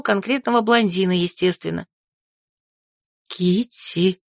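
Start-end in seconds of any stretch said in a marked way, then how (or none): 3.3-4.2 tense. Acted. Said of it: "напряжённо озираясь по сторонам".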